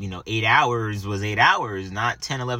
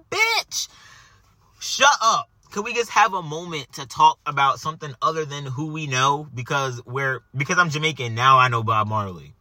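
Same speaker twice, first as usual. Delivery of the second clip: exasperated retort; 4 semitones higher than usual. Retold or imitated. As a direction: tell him off, done hearing it. Retorting to annoying boss.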